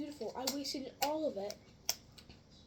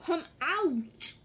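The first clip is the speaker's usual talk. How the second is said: loud, higher playful order; mock command shout; 5 semitones higher, 10 dB louder than usual. Ordering stuck slime out, mock commanding shout. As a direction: shout at it to come out.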